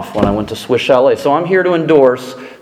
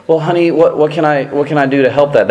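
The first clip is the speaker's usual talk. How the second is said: honeyed, accommodating husband voice; sweet outside voice; 5 semitones higher than usual. Shown as a demonstration. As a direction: sound helpful and sweet to your wife. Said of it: "That's the outside voice".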